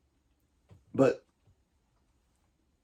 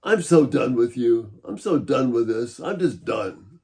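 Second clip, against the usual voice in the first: fed up; 3 dB louder than usual. Shown as a demonstration. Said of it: "total lack of appreciation".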